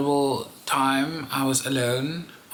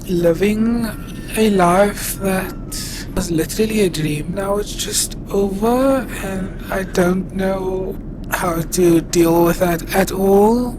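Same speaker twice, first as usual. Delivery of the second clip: crying, worn out; 2 semitones higher than usual. Real, not acted. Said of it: "I literally can't stop crying".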